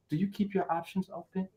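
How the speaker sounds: soft, timid imitation; meek asker. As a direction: ask it small, like an unsure suitor. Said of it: "So when you talk like this person".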